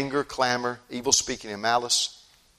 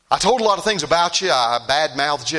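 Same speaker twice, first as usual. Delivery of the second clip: remorseful confession; 6 semitones higher, 7 dB louder than usual. Retold or imitated. Remorseful man confessing in story.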